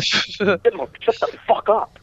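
sharp high yell at the caller. Real, not acted. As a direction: bark it out high. Yelling at the chipmunk.

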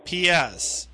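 slow and deliberate; dictating. Shown as a demonstration. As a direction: read it out for him to write. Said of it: "Did you write it down?".

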